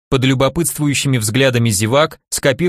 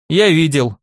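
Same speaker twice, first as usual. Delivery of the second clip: booming; 4 semitones higher than usual. Acted. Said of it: "гулко произнёс тот".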